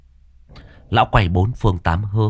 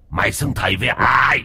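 angry shout; 4 semitones higher than usual. Acted. Dog ghost shouts the demand at the master. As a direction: bark the question at him.

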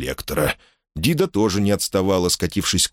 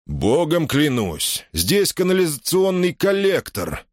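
distant king, higher, slow start; muffled from above; 8 semitones higher than usual. A narrator's reading. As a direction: call down from far above. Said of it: "приглушённый, но различимый".

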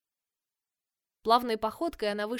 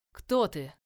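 growl; 4 semitones lower, 4 dB louder than usual. A narrator's reading. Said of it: "прорычал Эш".

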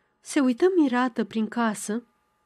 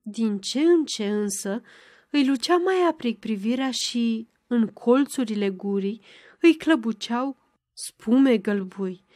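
usual speaking voice

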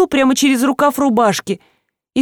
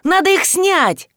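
higher, slow and eager, lit up by the idea; eager realization; 7 semitones higher, slower than usual. A narrator's reading. Сеня осеняет, как снять ботинки: slow, high, eager. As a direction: blurt out the answer you just found. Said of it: "осенило Сеню".

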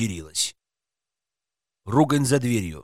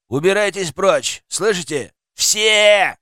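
raised, angry dismissal; angry shout; 4 semitones higher, 4 dB louder, slower than usual. Acted. Man behind the door driving visitors off, angry shout. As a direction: shout them away, loudest on the last word.

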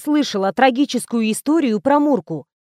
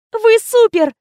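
squealing; 11 semitones higher, 6 dB louder, slower than usual. Acted. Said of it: "взвизгнула Коркина".

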